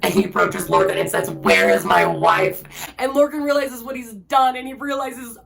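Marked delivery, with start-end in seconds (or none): 1.3-2.6 hoarse whispered demand. Retold or imitated. Rowan confronting Lorcan.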